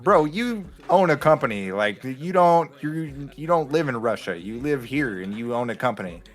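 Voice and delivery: exasperated lecture. Retold or imitated. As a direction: lay into him, fed up. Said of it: "for you to be like".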